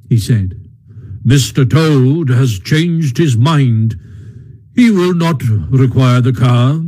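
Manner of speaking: a hint of a gruff, firm badger; calm, firm, final old badger; lightly voiced stern Badger.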